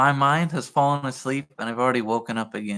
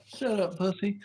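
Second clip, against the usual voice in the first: muttered tease; 5 semitones higher, 9 dB quieter than usual. Real, not acted. Teasing friend.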